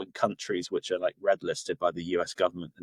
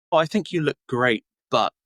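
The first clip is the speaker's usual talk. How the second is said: higher, louder gushing praise before a but; sugarcoated American compliment; 5 semitones higher, 5 dB louder than usual. Retold or imitated. American softening a remark about appearance, sugarcoated. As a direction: imitate a nice, sugarcoating tone. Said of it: "they'll sugarcoat it in a nice tone".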